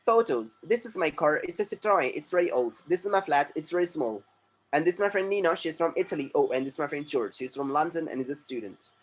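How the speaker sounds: reading sample sentences slowly and clearly; slow textbook reading. Shown as a demonstration. Teacher reading textbook lines slowly to class. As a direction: model each sentence slowly for students.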